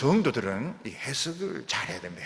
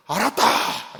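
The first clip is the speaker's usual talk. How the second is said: God's answer; 8 semitones higher, 8 dB louder, much slower than usual. Acted. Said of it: "그때 하나님 뭐라고?".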